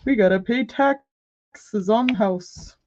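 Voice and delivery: slow, dopey imitation of a sensible husband; mocking husband. Wife mimicking husband's sober tax talk, slow mocking voice. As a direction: drag it out like a killjoy spouse. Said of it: "That's what you sound like".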